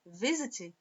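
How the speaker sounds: "Visit" stressed on the first syllable. Shown as a demonstration. Teacher showing where the stress falls, "Visit" stressed on vi. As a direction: lean on vi in "Visit", let sit fall away. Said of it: "a força tônica não tá no sit, tá no vi".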